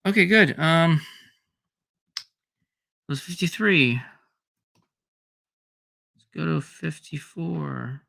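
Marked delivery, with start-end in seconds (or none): 2.2-8.0 tired gravelly voice after a long day; a little gravelly, worn out. Real, not acted. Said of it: "Sorry if I sound a little gravelly".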